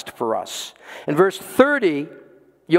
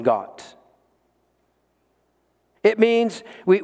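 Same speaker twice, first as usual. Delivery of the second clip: slow, deliberate preaching; slower than usual. Real, not acted.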